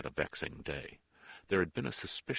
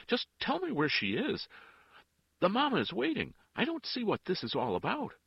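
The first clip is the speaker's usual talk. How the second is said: very high, loud, agitated plea; loud demand; 8 dB louder than usual. A narrator's reading. Father demands to know where his girl is, loud. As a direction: demand it with the voice pitched right up. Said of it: "in a loud voice".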